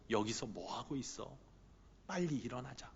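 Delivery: soft, low, intimate asking; a quiet nudge, almost a whisper; hushed gentle question. Acted. Jesus softly asking Peter why he lingers, hushed. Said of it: "이렇게 속삭이시는 것 같아요".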